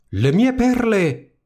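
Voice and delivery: high, slow jealous shriek; a stepsister screeching over stolen pearls; envious high screech. A narrator's reading. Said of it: "gridò una".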